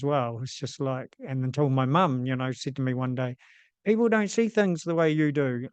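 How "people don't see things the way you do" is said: mild mock scolding, pitched higher; mildly angry, agitated. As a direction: retell a mother's agitation, lightly raised pitch. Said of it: "a kind of a angry, a little bit agitated voice".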